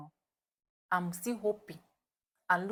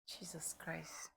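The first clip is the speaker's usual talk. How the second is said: breathless whisper, much softer and slow; whispered in disbelief; awed whisper; 3 semitones lower, 16 dB quieter, slower than usual. Real, not acted. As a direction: hush it in awe. Awed hush before the reveal.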